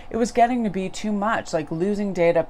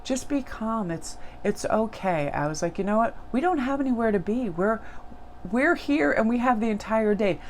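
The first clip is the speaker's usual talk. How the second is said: soothing; 5 semitones higher than usual. Retold or imitated. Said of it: "I started rubbing their back".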